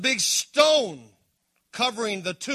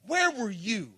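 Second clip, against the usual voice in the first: hurt whisper; 4 dB quieter than usual. Acted. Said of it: "in anger".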